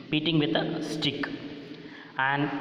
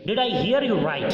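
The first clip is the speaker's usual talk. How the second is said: higher, fast angry demand; 4 semitones higher, much faster than usual. Acted. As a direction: demand it quickly, pitched up in anger. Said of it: "Akbar was very angry".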